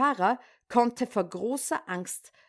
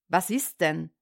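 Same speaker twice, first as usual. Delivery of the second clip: sleepy husband; 5 semitones lower than usual. Acted. Ehemann antwortet verschlafen am Fenster.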